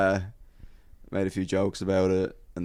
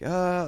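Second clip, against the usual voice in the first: straining cry; 11 semitones higher than usual. Retold or imitated. Man reaching over to stage.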